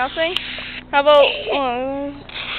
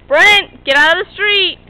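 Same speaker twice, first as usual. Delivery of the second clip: calling out; 3 semitones higher, 6 dB louder, slower than usual. Real, not acted. Child in the street.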